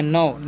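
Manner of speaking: "no" with a long "oh" vowel, pitched low. Shown as a demonstration. Teacher shows O as ओ here, low "no" with a long "oh". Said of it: "ओ का उच्चारण ओ".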